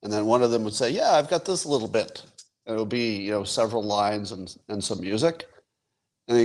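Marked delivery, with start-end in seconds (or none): 0.9-2.2 lightly imitated Liverpool accent, higher pitch; a hint of a Liverpudlian band member. Band member offering bandmates a song fragment, light Liverpool band accent. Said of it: "this is my band accent".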